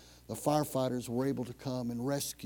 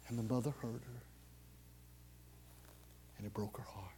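hushed heartbreak; 6 semitones lower, 15 dB quieter, faster than usual. Acted. Sad climax of story.

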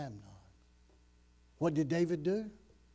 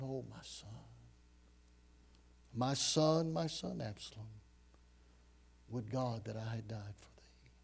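hushed, broken whisper of grief; grieving cry; 5 semitones lower, 5 dB quieter than usual. Acted. David grieving over dead Absalom, softer, whispered lament. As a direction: whisper it like a father who lost his son. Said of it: "he's crying out in great emotion".

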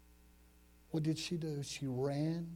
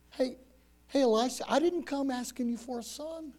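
acted hurt mother, pitched higher; hurt, mildly angry; 7 semitones higher than usual. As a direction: plead with a touch of angry reproach. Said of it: "a little bit of anger and hurt in her voice".

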